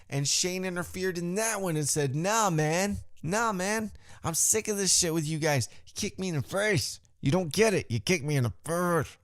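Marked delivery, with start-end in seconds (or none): 2.1-9.2 acted aggrieved protest. Acts Shane's aggrieved protest.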